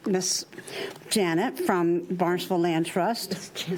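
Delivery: slow schoolteacher roll call; like a teacher. Real, not acted. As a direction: introduce her slowly, like a teacher. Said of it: "Janet, like a teacher".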